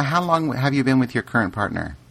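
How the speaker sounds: normal talking voice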